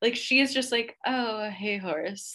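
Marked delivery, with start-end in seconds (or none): 1.0-2.3 wary, freaked-out, nervous, uneasy little voice. Describing Paris at a stable, speaker acts out her greeting a horse: imitating nervous Paris. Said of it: "she does not want to touch it".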